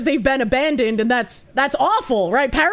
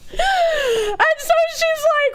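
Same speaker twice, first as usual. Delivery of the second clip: words squeezed out slowly through laughter; laughing while talking; much slower than usual. Real, not acted. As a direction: keep laughing as you try to go on.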